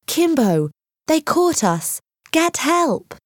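rising to a high desperate shout; shouting very loudly. A narrator's reading. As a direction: call for help across the trees. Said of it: "shouted very loudly".

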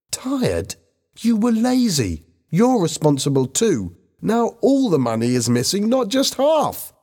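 high-pitched, scornful outburst; shouting. A narrator's reading. Helen blames Bobby for the missing money, shouting. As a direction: accuse him high, as if shouting. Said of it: "Helen shouted at him".

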